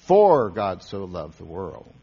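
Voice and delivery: "For" stressed, slow and loud. Shown as a demonstration. Preacher demonstrating Bible reading, stress on For. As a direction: lean on the word "For", then ease off. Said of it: "you might say".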